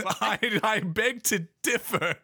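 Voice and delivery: high, slow put-on voice; mock-offended high character voice; lizard character objecting. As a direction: drag out a high, huffy objection. Lizard character objecting after challenge.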